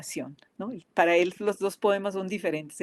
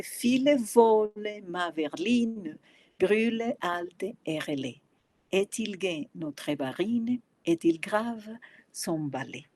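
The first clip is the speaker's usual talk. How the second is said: slow, measured French verse reading; poem recitation; slower than usual. Acted. Lecturer reading a poem to students, slow recitation. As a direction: recite each French line deliberately, word by word.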